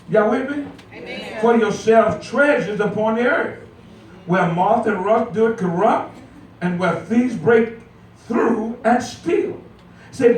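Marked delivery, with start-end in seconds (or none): 1.4-9.6 scripture reading. Acted. Reads scripture aloud.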